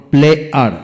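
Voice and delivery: প্লেয়ার in two beats, ple, ar; split into syllables. Shown as a demonstration. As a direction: pause inside প্লেয়ার. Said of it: "দুটি syllable থাকে".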